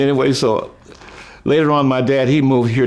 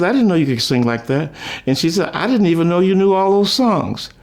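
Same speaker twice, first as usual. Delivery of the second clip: amazed mom; 8 semitones higher than usual. Retold or imitated. Mom amazed at son's singing.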